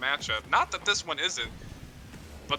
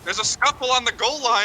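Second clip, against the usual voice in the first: higher, louder sudden call; excited play-by-play; 7 semitones higher, 6 dB louder than usual. Real, not acted. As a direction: call the scramble in front of goal. Sudden goal-line action called out.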